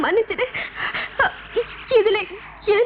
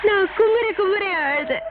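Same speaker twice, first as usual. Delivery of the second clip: slow, crying plea; sobbing; 2 semitones higher, slower than usual. Acted. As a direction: drag the words out through tears. Pleading with the ghost.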